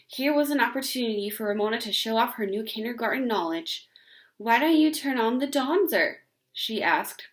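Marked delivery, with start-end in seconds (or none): 4.4-6.2 proud. Acted. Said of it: "proud of her new word".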